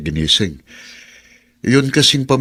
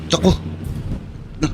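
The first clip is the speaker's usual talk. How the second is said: rising terrified shout, much higher and louder; panicked screaming; 6 dB louder than usual. Acted. Driver waking at the wheel, screaming in panic. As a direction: scream as the car is about to crash. Driver wakes before crash.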